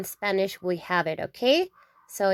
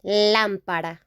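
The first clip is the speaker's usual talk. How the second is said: Lámpara with the stress on the LÁ; teacher showing the accented A; stress on first A; 2 semitones lower than usual. Shown as a demonstration. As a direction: hit the first syllable of Lámpara. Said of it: "With an accent in the A".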